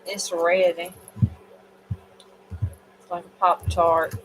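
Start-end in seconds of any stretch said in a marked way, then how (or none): 3.0-4.1 a light slip into a Southern redneck accent. Real, not acted. Tired reader slipping into redneck Southern accent. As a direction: let a touch of Southern redneck twang out. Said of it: "the redneck's coming out".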